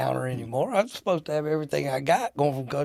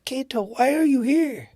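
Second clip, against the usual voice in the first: high-pitched, rising astonishment; incredulous, pitched way up; surprised greeting; 9 semitones higher, 3 dB louder than usual. Retold or imitated. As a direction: imitate someone startled to find you there. Barman startled to see him.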